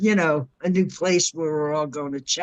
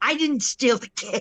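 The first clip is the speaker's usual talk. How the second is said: play-acted talking with mouth crammed full, pitched up; 7 semitones higher than usual. Acting out someone who stole cake and denies it: mock talking with mouth full. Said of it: "cramming it in their face".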